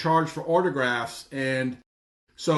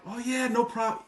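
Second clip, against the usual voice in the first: higher, softer easygoing reply; nice, obliging; 7 semitones higher, 5 dB quieter than usual. Retold or imitated. Pitcher asked to sign a card, nice and obliging. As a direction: agree gladly, as a friendly favor. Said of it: "He could not have been nicer".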